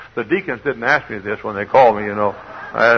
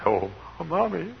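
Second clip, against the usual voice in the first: put-on relieved child; 7 semitones higher, 6 dB quieter, slower than usual. Child finds mother, retold.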